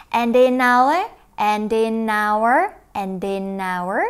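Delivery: Vietnamese: đọc chậm dần, nối âm; slowing linking drill. Shown as a demonstration. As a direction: ease down through the repeats of and in our. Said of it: "linking drill".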